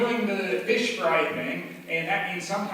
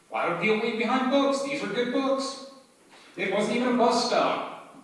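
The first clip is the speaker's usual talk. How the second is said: high, incredulous questioning; surprised disbelief; 7 semitones higher than usual. Real, not acted. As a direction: wonder aloud who'd leave books. Surprised at abandoned books.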